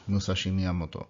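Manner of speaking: Musashi Miyamoto with every syllable equal in stress and length; even syllables. Shown as a demonstration. Teacher modelling the Japanese name evenly. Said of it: "Very little variation between the volume".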